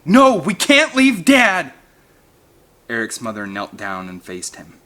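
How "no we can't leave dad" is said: loud, high, slow plea; firm protest. A narrator's reading. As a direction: insist he won't leave. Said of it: "Eric said firmly".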